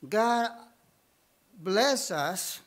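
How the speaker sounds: ordinary delivery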